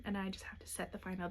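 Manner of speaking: softly, nearly whispered; quiet half-whisper. Real, not acted. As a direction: drop to a soft near-whisper. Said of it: "Pardon me, the hiccups".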